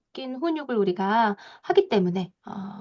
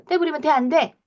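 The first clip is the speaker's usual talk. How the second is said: stern scolding; 3 semitones higher than usual. Retold or imitated. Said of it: "혼을 내죠".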